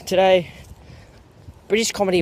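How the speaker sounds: Today said again in a put-on British accent; fake British accent. Host retaking his intro word in fake British. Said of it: "it's an Australian, that's not good".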